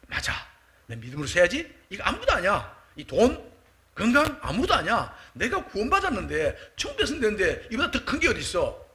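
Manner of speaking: acted heartfelt realization, lively rises and falls; rekindled gratitude. Believer reminding himself he is saved, acted moved conviction. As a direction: marvel with renewed conviction. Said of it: "그 감격을 다시 한번 누릴 때는요".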